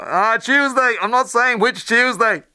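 high, slow Dublin puppet-turkey voice; Dustin Dublin accent. Retold or imitated. Dustin answering the listener's roof question, cheeky Dublin accent. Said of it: "Dustin would go on".

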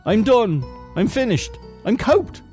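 high-pitched cries of doom; desperate despair. Acted. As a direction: wail that all is lost. Tom thinks his end has come.

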